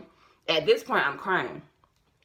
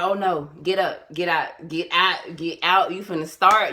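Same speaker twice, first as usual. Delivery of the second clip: mildly urgent mock order, growing louder; insistent retold warning, getting louder; urgent retold command; 5 dB louder than usual. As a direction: push each repeat a bit harder, building in volume.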